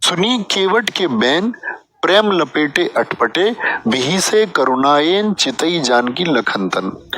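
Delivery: slow, measured verse recital; poetic recitation. Shown as a demonstration. Teacher reciting a couplet to his class, slow and measured. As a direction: recite the couplet slowly, savouring each word.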